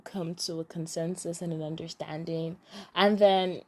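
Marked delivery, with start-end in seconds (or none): 0.0-2.6 whispered. Real, not acted. Vlogger hurries the plot summary along, whispered. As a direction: whisper the wrap-up. Whispered aside while wrapping up.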